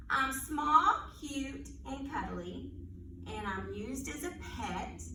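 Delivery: put-on riddle read aloud for little kids; reading to children. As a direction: read it like storytime. Reads animal riddles to children.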